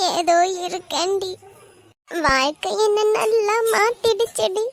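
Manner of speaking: mildly weary resignation; a touch of bitterness; despondent. Acted. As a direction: answer as if life has worn you down. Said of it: "இவ்வளோ விரக்தியா பேசுற".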